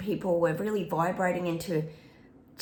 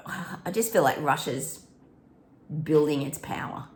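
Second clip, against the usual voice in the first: whispered aside; 3 semitones lower than usual. Real, not acted. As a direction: breathe it like a secret. Psychic reading aside.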